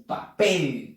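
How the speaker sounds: "papel" with the weight on PEL; teacher showing the stressed end of "papel". Shown as a demonstration. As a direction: lean on the last syllable of "papel". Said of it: "La última sílaba lleva la fuerza de voz".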